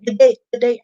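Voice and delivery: put-on trying an Australian accent. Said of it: "I gotta get the accent right".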